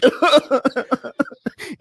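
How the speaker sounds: high, broken mock sobs; mock bawling. Storyteller as himself crying on the desk, mock bawling. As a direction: imitate bawling in short high bursts. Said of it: "I'm totally crying my brains out".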